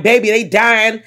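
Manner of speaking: horrified. Retold or imitated. Horrified reaction to scene.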